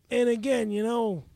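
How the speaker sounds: lightly done Chicago accent; a hint of Chicago. Shown as a demonstration. Rapid-fire accent request from host, Chicago accent. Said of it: "Chicago accent".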